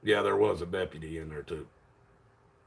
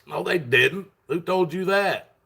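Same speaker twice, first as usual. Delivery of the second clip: pitched-up, drawn-out disbelief; incredulous denial; 8 semitones higher, 4 dB louder, slower than usual. Retold or imitated. Disputing what he was told about returning, acted incredulous. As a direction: act out a disbelieving challenge.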